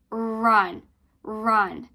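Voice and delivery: loud r drill; rolled r. Shown as a demonstration. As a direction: run with a strong rolled r. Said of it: "when you pronounce R".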